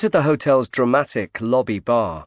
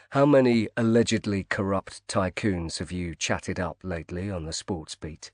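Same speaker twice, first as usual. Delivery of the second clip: cool; 3 semitones lower, 5 dB quieter than usual. Acted. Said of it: "he asked her coolly".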